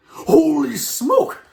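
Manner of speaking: high, loud, drawn-out yell. A narrator's reading. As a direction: stretch out a yell of shock. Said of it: "the man was yelling".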